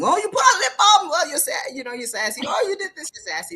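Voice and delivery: high, loud mock exclamations; mimicking an overeager critic; mocking sassy accuser. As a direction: tease them in a hammed-up put-down voice. Mocking people who call men sassy.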